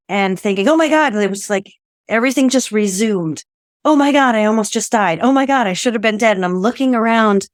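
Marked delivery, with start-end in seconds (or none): 0.7-1.2 high startled "Oh my God"; stunned exclamation, higher and louder; shocked gasp. Retold or imitated. Realizing she survived the crash. 3.9-6.4 breathless astonishment, speeding up; shocked disbelief. Retold or imitated. Realizing she almost died.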